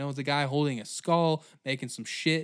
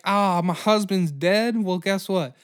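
mock vengeful wife; 3 semitones higher, 5 dB louder than usual. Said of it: "she was like".

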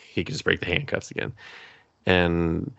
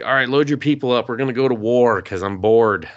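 lightly voiced bossy leader, a bit raised; mock war leader; 4 semitones higher, 4 dB louder than usual. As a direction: order the troops out in an imitation voice. Evil leader orders people to war.

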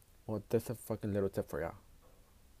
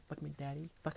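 imitating a bedroom moan; 6 semitones higher, 6 dB quieter than usual. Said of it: "I was like".

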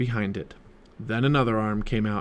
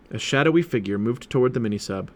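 ordinary delivery

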